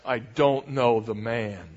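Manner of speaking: slow, weighted oath; sworn denial. Acted. Peter denying Jesus a second time, swearing an oath. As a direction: swear it deliberately, word by word. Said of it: "he says it with an oath".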